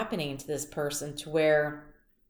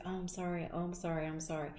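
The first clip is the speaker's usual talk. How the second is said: soft, timid little apologies, much quieter; meek sorry; 8 dB quieter, faster than usual. Retold or imitated. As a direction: imitate a sweet girl apologising meekly. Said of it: "she was sweet as pie and used to say sorry".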